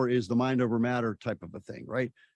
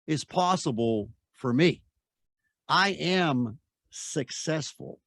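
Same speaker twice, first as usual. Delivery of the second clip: slow, deliberate affirmation, each line weighted; slow affirmation recital; slower than usual. Shown as a demonstration. Coach reciting an affirmation for the listener, slow and deliberate. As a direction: recite it like a daily mantra, slowly. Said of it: "You ready?".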